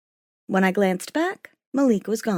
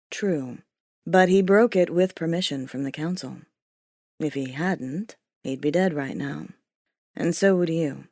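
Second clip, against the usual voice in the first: biting; 4 semitones lower than usual. Acted. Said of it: "his words had a bite to them".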